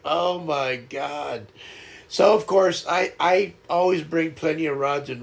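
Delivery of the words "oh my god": slow, lowered mock dismay; retold exasperation. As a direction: drag it out as if despairing of them. Exasperated at both being stuck.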